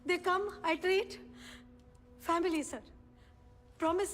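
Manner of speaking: broken, begging the judge in halting English; desperate pleading. Acted. Mother begging the judge to return her children, desperate. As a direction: plead for your children as if your life depends on it.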